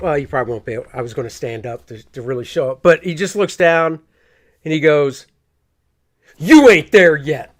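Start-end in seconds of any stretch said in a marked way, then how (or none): 6.4-7.4 loud, mock dismissive tone full of attitude. Retelling how a customer brushed off a price quote: imitating a dismissive line with attitude. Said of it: "with attitude".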